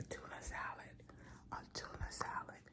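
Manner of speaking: unvoiced hushed whisper. Real, not acted. Vlogger whispering to viewers about her tuna plans. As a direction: whisper it like a secret craving. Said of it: "why am I whispering?".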